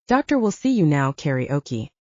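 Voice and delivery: lightly voiced receptionist calling a name; mock receptionist. Sister imagining a doctor's office calling her, mock receptionist. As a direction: call it out like a bored receptionist, barely acted. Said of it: "Paging karaoke to the front".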